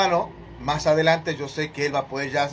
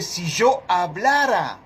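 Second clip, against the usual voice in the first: "si yo hablara" slow and drawn out as a supposition; teacher stressing "si yo hablara" as hypothetical; conditional emphasis; 2 semitones higher, slower than usual. Shown as a demonstration. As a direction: spell out the supposition in "si yo hablara", slowly. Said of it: "Es una suposición".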